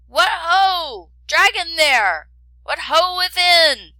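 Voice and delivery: loud, high hail into a dark cave; shouting. A narrator's reading. Prince calls the dragon out of its cave, loud shout. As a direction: call out boldly into the darkness. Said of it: "and the prince shouted".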